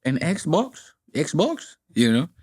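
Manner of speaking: mock Latino accent with rising phrase ends; imitated Latino gamer accent; heavy accent imitation. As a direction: complain in a put-on Latino accent. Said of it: "The guys with the heavy accent".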